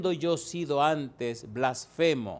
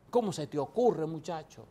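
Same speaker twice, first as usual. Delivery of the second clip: voicing the Lord rebuking Paul; 2 semitones higher than usual. Preacher voices Jesus rebuking young Paul, stern and commanding. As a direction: speak as the Lord confronting a stubborn young man.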